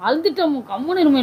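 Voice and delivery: real embarrassed murmur; soft hushing. Real, not acted. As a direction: shush her, embarrassed. Embarrassed hushing after prank reveal.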